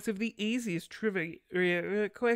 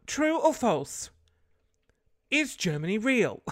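mock dumb quiz; 5 semitones higher, 6 dB louder, slower than usual. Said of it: "the questions are like".

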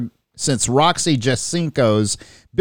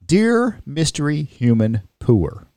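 bad Australian accent; slower than usual. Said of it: "That's a horrible Australian accent".

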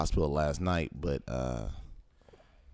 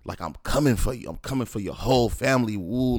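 retold angry tirade, raised pitch; mock-rant at him, pushing each threat higher; going in; 6 semitones higher, 3 dB louder than usual. Son lays into his father on the phone, retold angry tirade. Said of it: "I'm going in".

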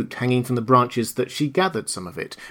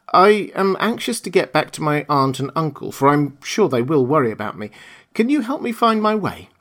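put-on lightly raised girlish voice, earnest and hopeful; young Dorothy, pleading; 5 semitones higher than usual. Dorothy pleads with the Munchkins, lightly voiced anxious girl.

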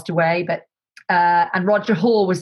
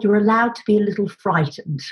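dry reassurance. Retold or imitated. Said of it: "like that".

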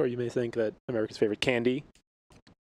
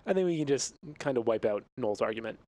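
librarian voice; 4 semitones lower than usual. Acted. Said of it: "What's with this librarian voice here".

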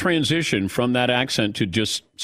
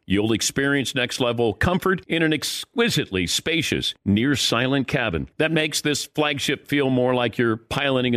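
smooth, polished sponsor read; upbeat commercial announcer voice. Acted. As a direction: sell the car like a radio ad. Host reads sponsor ad.

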